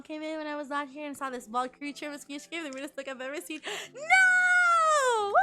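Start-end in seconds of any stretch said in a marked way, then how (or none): 3.9-5.3 high, loud drawn-out cry of No; shocked shout. Real, not acted. Reacting to a viewer's joke with a long high shout. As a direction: yell it out in shock.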